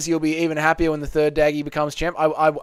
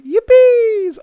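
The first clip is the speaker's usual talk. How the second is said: high, loud, hammed-up whoop; mock celebration shout; 9 dB louder than usual. Streamer acting out Dougie jumping into arms, mock-gleeful shout. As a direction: shout it like an overjoyed fan, pretending.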